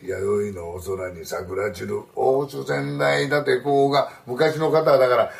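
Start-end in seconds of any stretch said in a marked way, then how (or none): 0.0-4.1 slow, flat gravelly chant like a sutra. Shown as a demonstration. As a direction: drone it in a rough, gravelly monotone. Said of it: "こういうダミ声でやってたんではないかな". (ゆっくりしたお経のようなダミ声)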